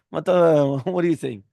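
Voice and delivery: incredulous question broken by laughs; laughing protest. Retold or imitated. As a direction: laugh through a disbelieving question.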